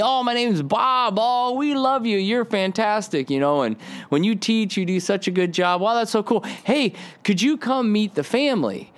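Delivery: high, eager voice of a gushing fan; gushing fan imitation. Gushing stranger voiced in story.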